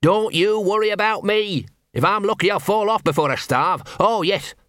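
hammed-up martyr wailing after them; sarcastic shout. Gaspode calls after the fleeing Angua, sarcastic and self-pitying. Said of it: "he shouted".

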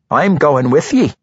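gruff dwarf woman. A narrator's reading. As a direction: speak like a rough dwarf. Dwarf declares.

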